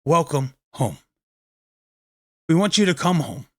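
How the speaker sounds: tender invitation. Shown as a demonstration. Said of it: "to contact them and say".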